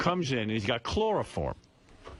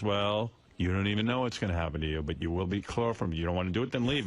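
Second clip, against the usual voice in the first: lightly voiced low-pitched boss; hillbilly interviewer; 5 semitones lower, faster than usual. Boss threatens job applicant who objects, lightly voiced hillbilly. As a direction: imitate a hillbilly interviewer, pitch dropped a little. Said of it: "looks like he just stepped out of hillbilly heaven".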